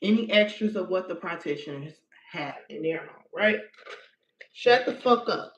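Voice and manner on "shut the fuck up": firm, fed-up snap with a bit of bite; angry command. Shown as a demonstration. Demonstrating the spell words to viewers, mildly angry. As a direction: put your anger behind it. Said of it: "You wanna be as angry as you possibly can".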